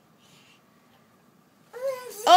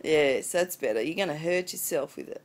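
soft aside; 11 semitones lower, 7 dB quieter than usual. Real, not acted. Quieter aside to baby.

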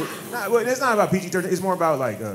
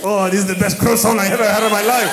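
hammed-up sultry praise, laughing through it; a lover gushing in bed, played for laughs; mock bedroom voice.

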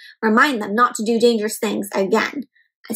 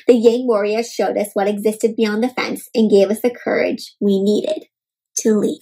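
steady storybook reading voice; story narration. Acted. Teacher reading a picture book to kids, calm storybook narration. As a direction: read the tale out to the class.

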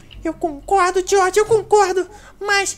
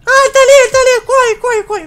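being chased; 4 semitones higher, 8 dB louder than usual. Pretend. Fugindo do palhaço.

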